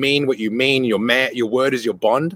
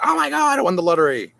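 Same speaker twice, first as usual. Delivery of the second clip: imitating a thrilled girl, very high-pitched; high squeal of hammed-up delight; mock overjoyed; 6 semitones higher than usual. Girl told the brother likes her, mock overjoyed. Girl's overjoyed reaction, retold.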